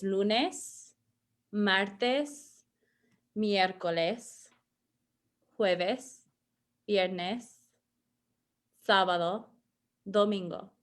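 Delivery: slow model of each Spanish weekday; days modeled. Shown as a demonstration. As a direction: say each day clearly for repeating. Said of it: "So here they are".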